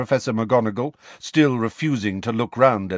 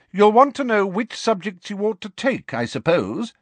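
higher, insistent schoolmistress voice; raised, no-nonsense teacher voice; professor pressing on; 12 semitones higher than usual. A narrator's reading. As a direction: carry on pointedly over an interruption. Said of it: "talking a little louder than before".

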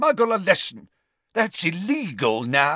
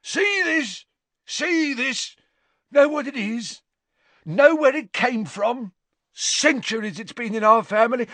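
high, raised, frenzied brag; fierce boasting; 12 semitones higher, 3 dB louder than usual. Acted. Father showing the official his ring, fiercely boasting. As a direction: flaunt the heirloom with fierce pride.

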